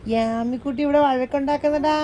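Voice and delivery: playful tattling call; hailing voice with a stretched ending. Pretend. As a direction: call out a complaint to someone away. Mock-reporting baby to absent Yuvi.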